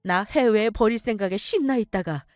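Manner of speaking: mother exposes her son's scheme; mother's furious reproach. Acted. Mother confronts scheming son. (엄마가 분노하며 호통치듯)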